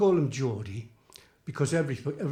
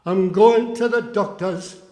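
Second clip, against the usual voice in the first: comic poem recital; 3 semitones higher, 8 dB louder than usual. Acted. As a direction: declaim it like a music-hall monologue.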